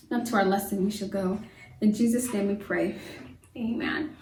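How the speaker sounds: rhymed prayer said gently. Acted. Prayer to open class.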